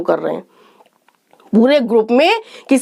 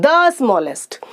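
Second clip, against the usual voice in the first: slow example; 3 semitones lower, much slower than usual. Shown as a demonstration. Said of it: "the लगाते हैं".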